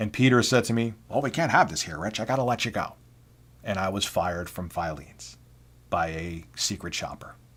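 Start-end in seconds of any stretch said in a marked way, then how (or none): 1.1-2.9 put-on nasal voice, quieter, faster. Retelling being fired from Filene's, quoting Peter in Peter's nasal voice. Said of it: "he sounded very nasally".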